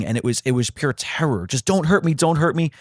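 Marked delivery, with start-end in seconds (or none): 1.7-2.7 high retold plea, a mock scream; terrified pleading. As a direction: beg in fear, pitched up. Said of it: "she just kept screaming".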